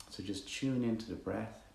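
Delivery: calm meditation guide with long pauses; guided meditation. Acted. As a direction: ease listeners quietly into the breath, leaving space between phrases.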